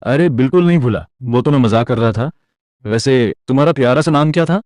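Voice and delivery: bluffing with a bright forced cheer; fake confidence. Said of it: "confidence के साथ बोला".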